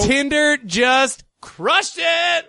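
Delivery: mock triumph. Mock triumph at the matchmaking joke.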